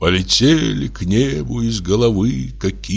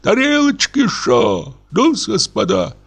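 rowdy reveller; 12 semitones higher than usual. A narrator's reading. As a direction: holler orders like a drunken gent. Carousing neighbour calls the servant.

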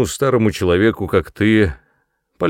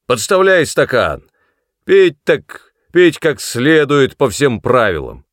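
loud, higher, harsh demands; bullying rage; 3 semitones higher, 5 dB louder than usual. A narrator's reading. Son bullying his old mother, loud and angry. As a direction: force her to drink.

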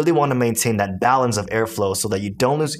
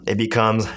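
low inward voice. Shown as a demonstration. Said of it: "lower the tone".

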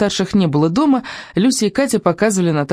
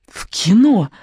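eager guess, higher; exclaiming; 5 semitones higher, slower than usual. A narrator's reading. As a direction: shout out the guess gladly. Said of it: "воскликнула Люся". (радостное восклицание)

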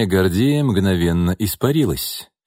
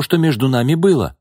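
higher, louder, hurt woman's voice; upset woman; 6 semitones higher, 3 dB louder than usual. A narrator's reading. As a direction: push the words at him, wounded. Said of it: "воскликнула Бакшеева".

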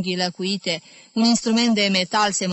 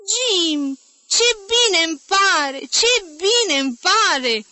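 put-on much higher, louder, delighted girl's voice; affectionate delight; 10 semitones higher, 5 dB louder, slower than usual. A narrator's reading. Dora delighted to hear Jim on the phone, much higher and louder. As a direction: gush with glad surprise. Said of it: "se auzi glasul afectuos al fetei".

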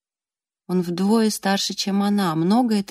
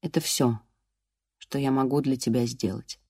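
lower, softer, voice trembling; voice breaking; 6 semitones lower, 7 dB quieter than usual. A narrator's reading. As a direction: let the voice crack with grief. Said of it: "Его голос дрогнул".

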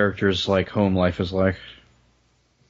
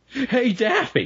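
high cartoon rabbit voice, way up; chirpy cartoon rabbit greeting; Bugs Bunny voice; 14 semitones higher, slower than usual. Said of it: "Christian Bale is Bugs Bunny".

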